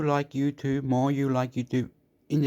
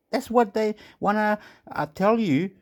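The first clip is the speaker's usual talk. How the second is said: high mock voice; 9 semitones higher than usual. Mocking high voice continues.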